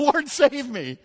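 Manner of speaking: high, slow pleading cry; desperate cry for help. Acted. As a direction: call out as if sinking. Peter crying out sinking.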